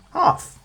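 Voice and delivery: half punched high and loud; stress on HALF. Shown as a demonstration. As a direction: hit the word half. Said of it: "Not completely. Only".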